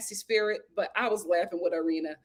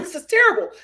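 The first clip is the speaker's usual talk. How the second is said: mock disgust; 7 semitones higher, 6 dB louder, faster than usual. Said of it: "I'm like".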